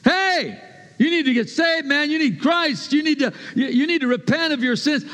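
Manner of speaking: high-pitched, urgent preacher's cry; loud proclamation. Shown as a demonstration. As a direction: call it out high and forceful, as a warning. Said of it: "No, he's talking like this".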